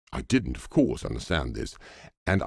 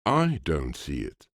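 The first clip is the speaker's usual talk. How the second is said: assured echo. Acted. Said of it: "with inimitable assurance".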